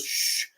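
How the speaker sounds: soft "shh" to silence someone; imitated shush. Older sister hushing her crying little sister, imitated shush. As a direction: hush a crying child. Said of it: "And she goes".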